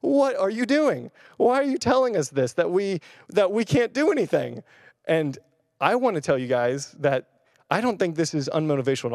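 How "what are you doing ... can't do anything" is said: doubtful listener. Retold or imitated. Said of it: "and you're like".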